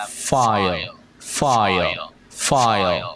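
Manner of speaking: "file" with the dark L ending sounded, like "fai-ol"; final sound pronounced. Shown as a demonstration. Teacher drilling the ending, final L of "file" sounded. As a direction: add the tail L to each "file", falling. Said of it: "đọc âm đuôi vô".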